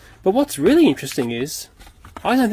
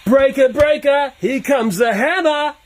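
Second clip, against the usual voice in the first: over walkie talkie; 9 semitones higher, 4 dB louder, slower than usual. Pretend. CB call into toy walkie-talkie.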